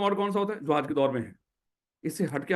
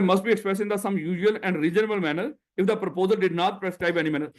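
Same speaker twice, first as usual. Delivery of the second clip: very slow, word by word, like dictating; slow, deliberate reading of the statute; slow dictation; 2 semitones higher, much slower than usual. Shown as a demonstration. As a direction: spell out the law slowly for note-taking. Teacher dictating the statute to students.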